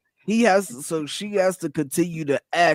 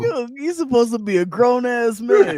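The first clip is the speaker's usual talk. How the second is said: real disbelief, raised and slowed; exasperated shout; 5 semitones higher than usual. Real, not acted. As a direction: spell it out for him like he should know better. Outraged reaction to the man.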